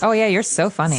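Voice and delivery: lightly sarcastic mock praise. Shown as a demonstration. Co-host trading teasing examples of sarcasm, sarcastic. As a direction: play at praising him, not meaning it. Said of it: "that's the way it goes".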